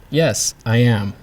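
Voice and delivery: slow, "am" dropping at the end; falling statement. Shown as a demonstration. Teacher giving an English example, "am" falling. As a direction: say it slowly, letting "am" fall. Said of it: "make a falling tone at the end of a statement".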